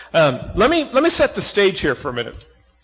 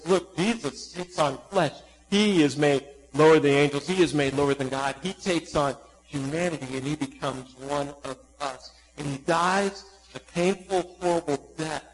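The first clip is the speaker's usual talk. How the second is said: hushed solemn reading; 4 semitones lower, 8 dB quieter than usual. Acted. Preacher to congregation, softly telling of Christ's suffering. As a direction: let the words fall soft and heavy.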